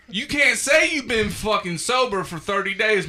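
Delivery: shouting rant. Real, not acted. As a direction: call them out at full volume. Ranting at sober posters.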